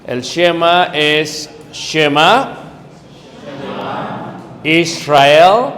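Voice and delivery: loud call-and-response lead; call to repeat. Shown as a demonstration. Teacher calls the Shema out for the class to repeat. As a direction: call each word out for the class to echo. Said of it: "vamos a pronunciar lo que es el".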